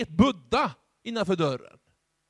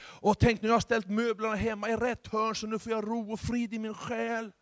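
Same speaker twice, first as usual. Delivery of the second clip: higher, dreamy singsong gush; mock new-age enthusiast; 4 semitones higher than usual. Pastor parodying a new-age believer, dreamy mock gush. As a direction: parody a blissed-out seeker.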